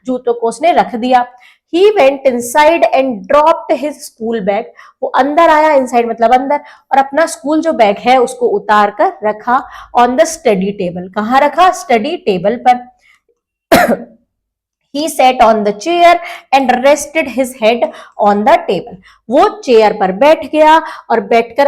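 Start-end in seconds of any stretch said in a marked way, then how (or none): 1.7-4.6 slow, careful lesson read; teacher reading a storybook line very slowly; slow reading aloud. Shown as a demonstration. Slow English reading for learners. 15.0-19.0 slow, careful lesson read; teacher reading a storybook line very slowly; slow reading aloud. Shown as a demonstration. Slow English reading for learners.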